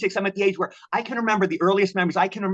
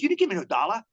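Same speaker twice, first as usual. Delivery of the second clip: higher, emphatic denial with a hint of street hustler; lightly voiced street hustler; 4 semitones higher than usual. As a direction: lightly imitate a hustler denying it. Acted hustler repeats his denial.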